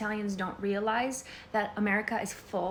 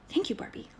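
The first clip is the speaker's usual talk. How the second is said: whispered, higher, barely voiced thanks; stunned whisper; 6 semitones higher, 3 dB quieter than usual. A complimented girl whispering thanks, stunned. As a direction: breathe it out in shocked delight. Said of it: "They're like".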